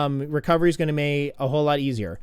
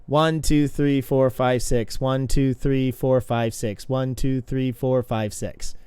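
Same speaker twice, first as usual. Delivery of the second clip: steady counted beat; even one-to-six count; rhythmic counting; 4 semitones lower, slower than usual. Shown as a demonstration. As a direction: count the kicks out in time. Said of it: "counting kicks in rhythm".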